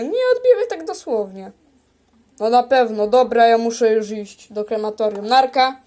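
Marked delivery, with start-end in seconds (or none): 0.0-1.5 quicker and a bit higher; hurried insistent repeat; faster repeat. Pretend. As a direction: rush it out again, pitched up.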